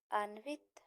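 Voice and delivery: अन्वित said slowly, ending on a rise; teacher repeats अन्वित for the class; slow rising repeat. Shown as a demonstration. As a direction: spell out अन्वित syllable by syllable, voice going up at the end. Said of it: "अन्वित, अनन्वित".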